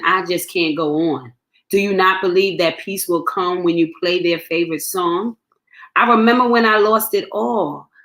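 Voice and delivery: measured spoken-word poem read. Acted. Poet reading her own poem to the listener.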